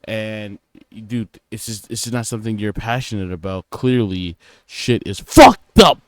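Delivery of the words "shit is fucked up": exasperated. Real, not acted. Exasperated outburst on work.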